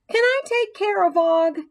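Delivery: put-on boy shouting his request to the teacher; loud eager ask. A narrator's reading. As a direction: blurt it out too loud. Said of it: "A J asked loudly".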